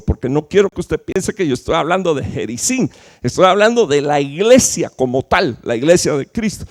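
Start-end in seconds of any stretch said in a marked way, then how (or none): none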